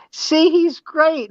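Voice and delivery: squeaky, slow, high imitation of the girl; high mock girl voice. Comic retelling of an adoring fan, high and slow. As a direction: put her voice way up and drag it out. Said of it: "she goes".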